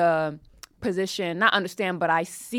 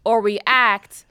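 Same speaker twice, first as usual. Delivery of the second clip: raised voice; 5 semitones higher, 10 dB louder than usual. Real, not acted. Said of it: "Carrie's levitating".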